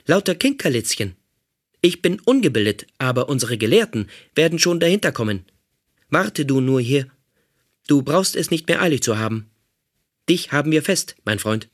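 a hint of a self-righteous robot guard; robot captor. Robot captor threatening the prisoner, lightly menacing voice.

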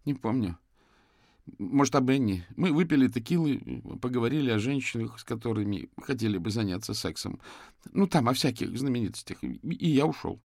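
high, strained, pleading voice; distraught young man. Acted. Suspect confesses to the detectives, high and distraught.

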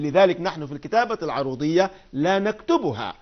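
ordinary delivery

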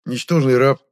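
deliberate name-by-name listing; listing insults. A narrator's reading. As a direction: count off each slur with force. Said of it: "принялся перечислять Министрель".

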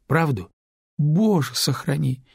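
a startled gasp of Боже, pitched high; frightened. Acted. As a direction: cry out in sudden fright. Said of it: "испугалась Люба".

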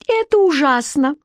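high-pitched anxious exclamation; agitated. A narrator's reading. Onlooker watches the fight, agitated exclamation. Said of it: "От волнения Алекс".

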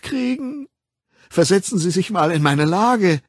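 lightly voiced self-pitying Linda; klagende Linda. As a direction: pour out your troubles, rising to indignation. (leicht gespielte, klagende Stimme)

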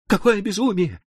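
high, anguished outcry; wailing cry. A narrator's reading. Hoffmann crying out to the doctor, anguished. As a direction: cry it out in despair. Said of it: "возопил Гофман".

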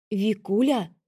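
alarmed cry of her name; frightened. A narrator's reading. Sister calling Vika in alarm. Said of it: "Испуганно, встревоженно запричитала Надя".

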